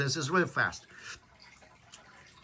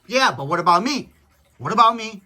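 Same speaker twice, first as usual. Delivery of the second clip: a touch louder, mock self-pity; selfish complaint; 3 semitones higher, 5 dB louder than usual. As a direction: whine lightly about being left out. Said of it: "I'm probably on my own kinda".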